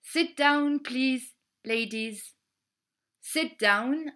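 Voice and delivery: polite flight attendant asking passengers to sit; steward's request. Acted. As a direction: ask the ladies to sit like a steward. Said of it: "Le steward nous demande de nous asseoir".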